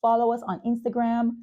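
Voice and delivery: upbeat ad read, brisk and bright; podcast outro ad read; sponsor read. Acted. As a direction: sell the sponsors like a radio host.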